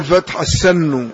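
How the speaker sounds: السن said as as-sannu, with an a; fatha on السن. Shown as a demonstration. Teacher corrects the reader's text, السن with a fatha. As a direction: open the vowel after the s in السن to a. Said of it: "أو الفتح".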